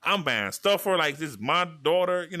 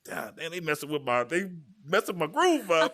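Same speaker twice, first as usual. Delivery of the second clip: annoyed inner grumble; 3 semitones higher than usual. Retold or imitated. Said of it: "I was like".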